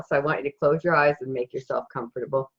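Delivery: calm meditation guide, long pauses between phrases; guided meditation. Acted. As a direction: gently guide listeners into a peaceful scene, unhurried.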